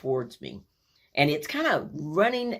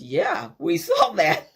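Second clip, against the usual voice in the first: slow, dry knowing remark; deadpan, we saw it all; dry yeah; 3 semitones higher, 5 dB louder, slower than usual. Retold or imitated. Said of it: "she goes".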